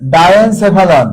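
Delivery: ডায়েনসেফালন said slowly and evenly; slow dictation. Shown as a demonstration. Teacher to students copying terms, ডায়েনসেফালন slowly. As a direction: give ডায়েনসেফালন slowly so they can write it. Teacher repeats term for note-taking.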